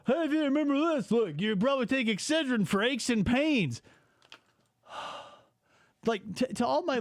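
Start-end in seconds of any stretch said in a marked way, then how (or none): 0.1-3.8 higher-pitched mock excitement; hammed-up imitation of a nostalgia post; mocking poster. Host imitating annoying nostalgia posters, mockingly.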